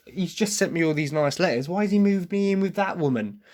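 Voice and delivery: imitating someone miffed; mild annoyance. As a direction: act out a put-out complaint, pitch climbing. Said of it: "a bit of an annoyance to it".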